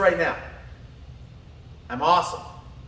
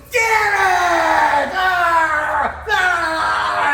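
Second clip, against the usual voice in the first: high mock yell of frustration; hammed-up wake-up curse; imitated angry curse; 8 semitones higher, 6 dB louder, much slower than usual. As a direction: blurt it like you just woke up furious. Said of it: "the first thing she'd go is".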